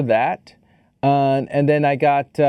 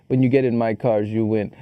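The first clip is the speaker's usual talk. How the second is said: movie trailer voice; 5 semitones lower than usual. Acted. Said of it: "I think I would reenact it".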